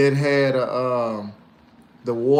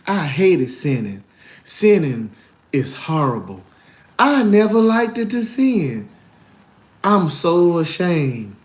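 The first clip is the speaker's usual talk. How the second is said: mock pious voice; slower than usual. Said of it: "People be like".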